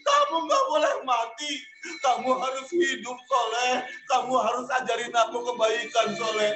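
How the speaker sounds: tearful pleading while dragging him; crying plea. Acted. Jami dragging his friend out, tearfully begging. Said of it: "diseret keluar sambil nangis".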